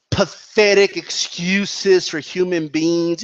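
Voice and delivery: slow, stretched stress on PATHETIC EXCUSES; imitated insulting emphasis. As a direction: mimic the insult, dwelling slowly on PATHETIC EXCUSES. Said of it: "put emphasis on words that are insulting".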